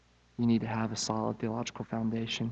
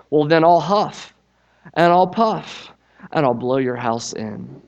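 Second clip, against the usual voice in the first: louder, slow threatening wolf; cross shout; 3 semitones higher, 9 dB louder than usual. Acted. Wolf threatening the straw pig, loud and cross. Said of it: "shouted very crossly".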